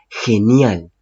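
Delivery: "genial" con la G sonando como jota. Shown as a demonstration. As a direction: marca el sonido de jota al empezar "genial". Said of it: "la G no suena como una G en sí, suena como una J". ("genial" pronunciado con jota inicial)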